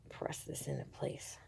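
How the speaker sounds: very soft near-whisper, low; hushed, barely voiced self-talk; muttering to oneself. Real, not acted. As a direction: murmur it under your breath while concentrating. Muttering to self while working.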